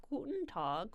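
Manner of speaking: German greeting as an accent demo. Shown as a demonstration. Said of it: "if you're doing a German accent".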